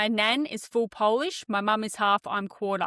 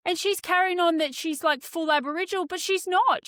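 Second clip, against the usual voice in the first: high, heated retelling; worked up; 6 semitones higher than usual. Real, not acted. Telling the friend about the argument, heated and high. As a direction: still fired up and indignant.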